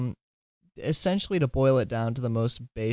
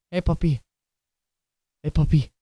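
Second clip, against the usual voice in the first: higher, sing-song call to a puppy; calling the dog; 6 semitones higher, 5 dB louder than usual. Real, not acted. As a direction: coax the dog over.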